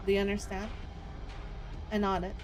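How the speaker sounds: steady storytelling read; story narration. A narrator's reading. Streamer reading the hunter scene to viewers, steady storytelling read. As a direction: read the scene out like a dark novel. Reads the game's story and dialogue aloud.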